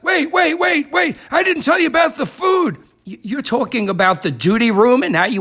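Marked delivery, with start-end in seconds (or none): 0.0-2.8 urgent pleading. Acted. Stopping listener from leaving.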